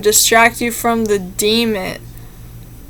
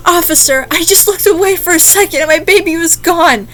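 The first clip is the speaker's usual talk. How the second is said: higher, pleading mock-panicked mother; mother faking distress to the police, pleading higher; mother's fake distress; 6 semitones higher than usual. Shown as a demonstration. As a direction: put on the frantic mom voice for the officer. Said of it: "that's her voice".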